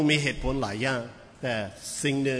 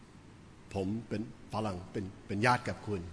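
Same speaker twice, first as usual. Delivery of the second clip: laughing disbelief; 4 semitones lower, 10 dB quieter, slower than usual. Retold or imitated. Pastor mocks the relative claim.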